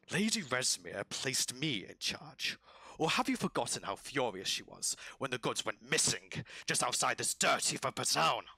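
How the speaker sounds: lightly voiced, indignant lizard creature; touch of rough-voiced reproach, building; lizard commander. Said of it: "The other one goes".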